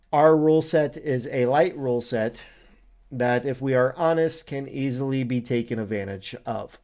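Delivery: reading out an official statement; formal read-aloud. Acted. Reads out the league philosophy.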